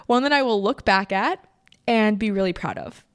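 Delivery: restarting the line with a laugh after tearing up; laughing through tears. Real, not acted. Host recovering from emotion with listeners, laughing. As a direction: giggle the words out, shaking off the tears.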